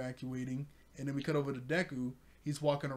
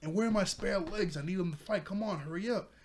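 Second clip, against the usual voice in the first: mildly worked-up impatient demands, pitched up; retold impatient outburst, a bit louder and higher; Reed Destro spazzing out; 4 semitones higher, 3 dB louder than usual. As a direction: imitate someone lightly spazzing at everybody. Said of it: "Reed Destro is spazzing at everybody".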